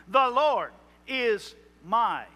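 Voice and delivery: slow "The Lord is my" leaning on "my"; stress on my. Shown as a demonstration. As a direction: linger on the little word "my". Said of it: "little word, only two letters".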